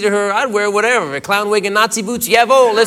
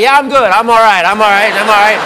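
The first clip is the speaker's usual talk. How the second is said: louder, pushing I'm all right through discomfort; strained reassurance; 6 dB louder than usual. Retold or imitated. Comedian to bank teller, louder strained reassurance. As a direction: insist you're fine while something hurts. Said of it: "Sir, are you okay".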